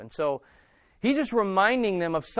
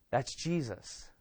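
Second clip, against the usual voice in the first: soft, slow, reverent murmur; quiet awe at the name; hushed aside; 5 semitones lower, 9 dB quieter, slower than usual. Real, not acted. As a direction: let it fall away, almost to yourself. Preacher drops to an awed aside.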